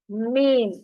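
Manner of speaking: मीम closed on joined lips; lips pressed together. Shown as a demonstration. Teacher showing students where the letter forms, lips joined. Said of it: "आपस में मिलाने से".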